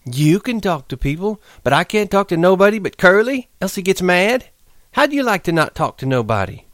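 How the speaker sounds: high pleading woman's voice; Curly's wife, lonely. Acted. Curly's wife pleads her loneliness to Lenny. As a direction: beg him to listen to her.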